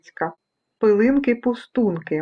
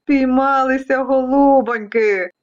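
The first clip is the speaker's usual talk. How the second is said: drawn-out storybook triumph; mildly hammed-up glee; gloating vacuum cleaner; 3 semitones higher than usual. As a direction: gloat slowly over the catch. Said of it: "радів пилосос".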